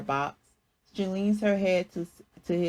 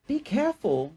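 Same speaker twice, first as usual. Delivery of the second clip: relieved; 7 semitones higher than usual. A narrator's reading. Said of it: "says with a relieved voice".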